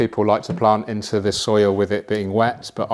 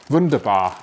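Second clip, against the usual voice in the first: mock German.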